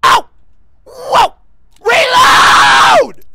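high, very loud startled yells; panicked shout. Real, not acted. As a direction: scream out in sudden panic. Panicked shouting during game.

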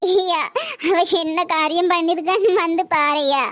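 tearful, grieving mother; crying. Acted. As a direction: sob out the plea. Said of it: "ஏன் எல்லாரும் அழுறீங்க?". (அழுதுகொண்டே புலம்பல்)

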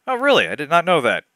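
hammed-up surprise; mock surprise. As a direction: pitch leaps up on oh really.

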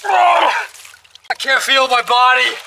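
slow strained words from the freezing water; cold shock. Real, not acted. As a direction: gasp it out, frozen stiff. Ice plunge, cold shock.

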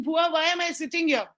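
put-on complaining child calling out; kid's protesting shout. Nephew complaining to aunt.

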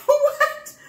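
high, loud, drawn-out incredulous question; retold shocked disbelief. Mom retelling her reaction to the gun call, laughing disbelief. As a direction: act out a stunned double take, laughing.

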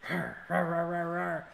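hammed-up zombie rawrs for the dog; playful rawr. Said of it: "You could be a zombie like".

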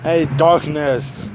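slow menacing villain build, rising at the end; ominous villain. Acted. A nightmare taunts who will stop me, menacing. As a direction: loom like a gloating monster.

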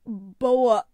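Boa, spoken through a sudden cough; coughing out the word. A narrator's reading. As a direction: choke on the word as you say it. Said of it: "Mister Peroni coughed".

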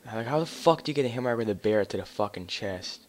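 loud incredulous rant; raging gamer. Real, not acted. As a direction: yell in disbelief at the game. Ranting at hit marker.

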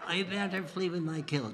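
finger across nose. Shown as a demonstration. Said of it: "Try it now".

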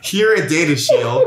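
infomercial announcer voice. Shown as a demonstration. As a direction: read it like a TV ad pitch. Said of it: "infomercial voice".

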